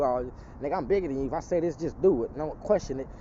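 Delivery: mocking the big guys who think size rules; mock big bully. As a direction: sneer it like a bully who expects obedience.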